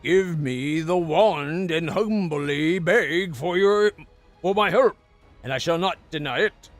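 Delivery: proud, gloating undead sorcerer; arrogant lich voice. Acted. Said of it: "Arrogance rings in the Lich's voice".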